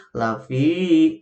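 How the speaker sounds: lafi with the final i held long; wrong long reading. Shown as a demonstration. Teacher showing the mothers the wrong reading, chanted. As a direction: draw out lafi as the error. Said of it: "Jadi tidak begini".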